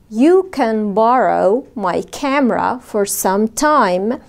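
very slow, every word separated; slow model sentence. Shown as a demonstration. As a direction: spell it out slowly for learners. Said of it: "قولوا معايا". (جملة بطيئة جدًا للتعليم)

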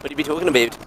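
mock Canadian accent. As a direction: parody a Canadian accent playfully. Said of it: "He said in Canada".

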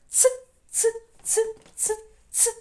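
високе цокання ц-ц-ц; цокати «ц» високо й чітко; повторюваний звук ц. Shown as a demonstration. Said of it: "звук Ц сьогодні в нас в гостях". (показ звука «ц»)

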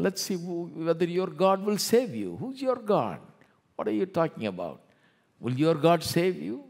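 high, loud, scornful challenge; taunting king. Retold or imitated. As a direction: jeer at them like a mocking king. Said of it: "He told the Hebrew children".

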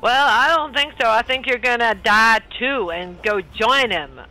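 high taunting retort; defiant taunt. Acted. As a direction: taunt back with a sneer. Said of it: "Moogie Bell goes".

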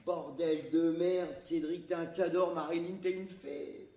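loud, slow awed cry; elated exclaiming. Acted. JP marvels at the view from the crane, loud and awed. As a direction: savour each word in wonder.

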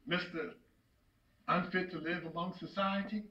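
hushed, scornful name-calling; bitter contempt. Acted. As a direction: sink from the outburst into quiet disdain. Scornful name for his son.

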